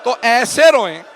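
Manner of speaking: building to very high, very loud, slow crying wail; full wailing lament. Real, not acted. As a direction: wail it out like a mourner at the peak. Climactic majlis wail.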